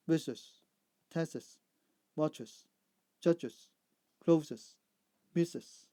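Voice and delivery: careful model reading, each final syllable sounded; extra-syllable endings. Shown as a demonstration. Teacher modelling sibilant plurals, extra syllable on each ending. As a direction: list words one by one, ending in an added "iz" syllable. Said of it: "with an extra syllable added".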